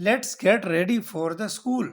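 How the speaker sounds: very slow, deliberate; slow model sentence. Shown as a demonstration. Teacher voicing the dad's line for learners, drawn out. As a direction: read it out word by word. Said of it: "ٹھیک ہے، تو".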